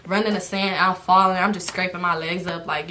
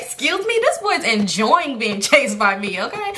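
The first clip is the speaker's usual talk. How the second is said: sassy indignation. Retold or imitated. Defending herself to critic, sassy.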